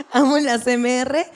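"Amo la C M R" laughed slowly with a put-on voice; mock adoring, laughing; laughing, drawn out. Shown as a demonstration. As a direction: repeat it slowly through laughter, mock-gushing.

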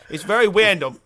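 "random" said "wandom" with w for r; lisp. Real, not acted. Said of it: "Shit, there it goes again".

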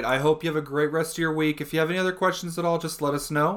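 practised, upbeat support farewell; lightly put-on helpdesk professional; customer service voice. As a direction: recite the call-centre sign-off politely. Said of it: "hear my customer service voice".

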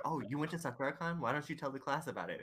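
mocking the teacher who hands out easy credit; sweet teacher voice. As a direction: play the chirpy teacher inviting a share. Imitating teacher asking class.

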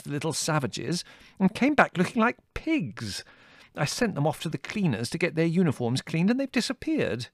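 put-on high, fussy old colonel, flustered; fretting old officer hunting lost scouts; agitated colonel. A narrator's reading.

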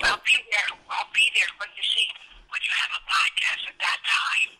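villainous low grumble; deep villainous grumble; low angry voice. Acted. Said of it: "it sounds really angry".

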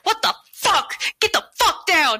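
retold yelling. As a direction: bark it like a drill sergeant losing it. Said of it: "I definitely did jump shit on".

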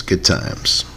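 1 whispered echo. Shown as a demonstration.

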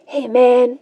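soft, easygoing greeting in the manner of a mellow singer; mellow, friendly acted hello; smiling. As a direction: say it gently through a smile. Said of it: "like, smiling".

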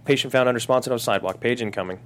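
loud clipped dispatch over the radio. Acted. Dispatcher calling the ambulance over the radio, loud and clipped. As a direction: read it like a crackling radio call.

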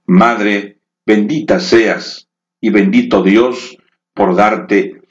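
recitación de poema. Acted. Poema a la madre. (recitado tierno y pausado)

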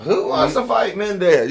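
rally the crowd, mock challenge; retold party challenge; mock call-out. Retelling Jimmy's call-out.

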